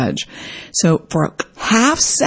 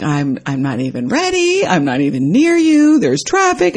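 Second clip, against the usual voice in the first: put-on upset boyfriend. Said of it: "And he's upset".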